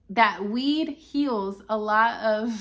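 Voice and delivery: slow, country-accented That weed heals a lot of. Real, not acted. Vlogger catches her country accent while explaining, country accent. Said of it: "it's my country accent".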